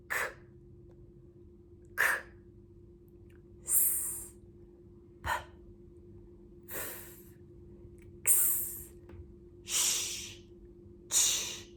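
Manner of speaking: "k, s, p, f, x, sh, ch" as pure breath, no voice; voiceless letter sounds. Shown as a demonstration. Teacher showing quiet letters, each of "k, s, p, f, x, sh, ch" only air. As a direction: isolate "k", "s", "p", "f", "x", "sh", "ch" as unvoiced air with gaps. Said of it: "It's just air coming out of my mouth".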